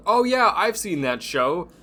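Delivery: lightly voiced guy pretending he knows Letterkenny; mock know-it-all. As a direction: fake it like you've seen the show. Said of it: "You were that guy?".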